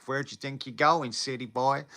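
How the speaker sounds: lightly put-on Texas country accent; thick country accent. British streamer imitating Texans she loved hearing, country accent. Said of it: "hearing, like, the thick, like, country".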